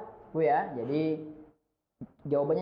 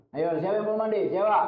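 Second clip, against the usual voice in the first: firm fatherly call, building louder; father's bass intonation; 5 dB louder, faster than usual. Shown as a demonstration. Father demonstrating how to call unbathed children, firm bass intonation. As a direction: round up the kids, ending on a loud demand. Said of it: "nah, gitu-gitu".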